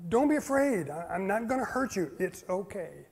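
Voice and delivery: a touch of soft soothing; gentle reassurance. Acted. Angel calming the terrified shepherds, softly reassuring. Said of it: "And so the angel says".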